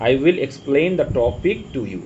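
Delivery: 1 slow read-out. Shown as a demonstration. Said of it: "এগুলো একটু মাথায় রাখবে".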